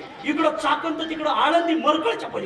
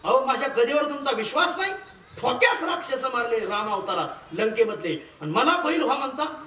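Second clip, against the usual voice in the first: higher, aggrieved complaining voice; whining complaint; 5 semitones higher than usual. Retold or imitated. Hanuman complains to God about being made an ox, whiny. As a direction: play the sulking devotee, pitched up.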